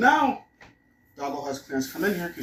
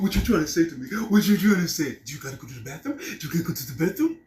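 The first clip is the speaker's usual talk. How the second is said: curious, gentle questions to a dog; mild doggy baby talk; coaxing pet talk; 3 semitones higher than usual. Retold or imitated. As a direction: ask the dog kindly what it needs. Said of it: "instead of like".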